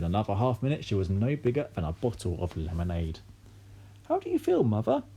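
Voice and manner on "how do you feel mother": high, anxious asking; mother checking on tiny grandma; nervous question. A narrator's reading. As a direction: ask nervously. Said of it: "asked Missus Cranky nervously".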